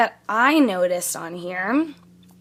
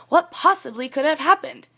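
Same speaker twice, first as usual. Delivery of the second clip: "What possibly could have happened" in a raised, questioning tune; questioning intonation; 5 semitones higher, 3 dB louder than usual. Shown as a demonstration. Teacher repeating it so students hear the question, raised intonation on "What possibly could have happened". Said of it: "do you hear the intonation in my voice?".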